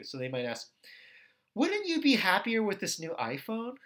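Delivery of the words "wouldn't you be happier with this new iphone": higher, lilting sales question; smooth talk. Acted. Advertiser selling you a new iPhone, smooth-talking. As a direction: coax them toward buying. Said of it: "people might smooth talk you".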